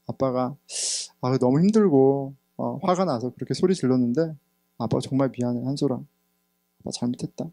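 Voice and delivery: soft, hushed apology, slowing to the end; tender confession. Retold or imitated. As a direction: confess gently to your baby boy, almost in a whisper. Confessing to baby son. (아기에게 조용히 잘못을 고백하듯)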